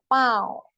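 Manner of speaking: पाँव drawn out through the nose; nasal second take. Shown as a demonstration. Urdu teacher contrasting for learners, nasal vowel. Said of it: "फर्क समझे".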